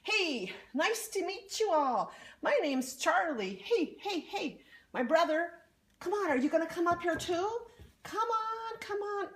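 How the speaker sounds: high, bubbly troll voice; an eager troll calling his brother over; friendly troll. Acted. Troll Charlie introduces himself.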